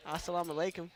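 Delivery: heavy exaggerated Arabic accent on Assalamu alaikum; hyper Arabic accent. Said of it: "hyper accent".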